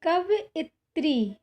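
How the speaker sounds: कवइत्री said slowly, syllable by syllable; slow dictation. Shown as a demonstration. Teacher slowly reads the wrong spelling कवइत्री to students. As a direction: draw out कवइत्री for the class. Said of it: "इधर दिया गया है अशुद्ध में कवइत्री".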